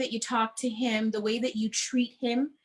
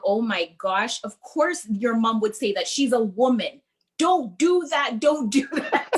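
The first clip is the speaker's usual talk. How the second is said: laughing imitation; 2 semitones higher, 5 dB louder than usual. Retelling a man's advice, laughing.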